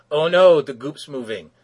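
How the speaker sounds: cartoon hero alarm; mock panic. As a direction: gasp it out in hammed-up panic. Heroes see the goop moving.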